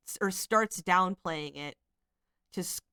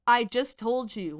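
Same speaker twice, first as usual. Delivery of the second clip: louder and slow, insistent; emphatic; 3 semitones higher, 5 dB louder than usual. Retold or imitated. Reading Amber's text aloud, loud emphatic insistence. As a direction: read it with four exclamation points. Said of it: "with four exclamation points".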